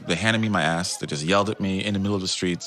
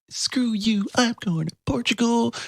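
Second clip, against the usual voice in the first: high defiant fling; mock-defiant goodbye. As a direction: toss it off in defiance. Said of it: "my F you to them".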